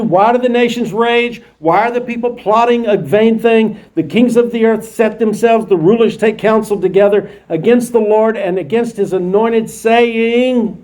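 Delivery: measured Bible reading; scripture reading. Acted. Teacher reading the psalm to the class, measured. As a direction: read the psalm aloud with weight.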